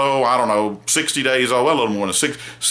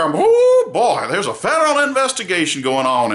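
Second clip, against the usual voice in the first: mock excited glee; 5 semitones higher than usual. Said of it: "mock glee".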